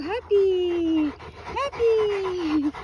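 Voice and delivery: playful long-held exclamation; gleeful cheer. Real, not acted. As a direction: stretch it out for the dog.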